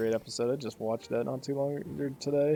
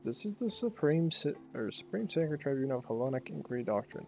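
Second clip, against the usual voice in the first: lofty, formal debate read aloud in character; lightly acted game characters. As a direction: lightly play pompous dignitaries arguing. Reads game characters' dialogue aloud.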